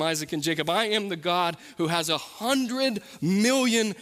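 emphatic declarations in God's words, pitch lifting; sermon climax, punching key words; impassioned preaching. Acted. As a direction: hammer each "I am" with rising conviction.

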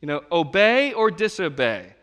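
firm parent ultimatum; dad giving son a choice, firm; stern father. Retold or imitated. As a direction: put the choice plainly. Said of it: "and I'm like".

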